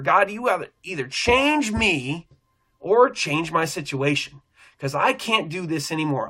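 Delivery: crying out in prayer. Retold or imitated. Stuck at the store, he pleads with God, slow and urgent. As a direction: plead it, pulling out the word change. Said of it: "I start crying out".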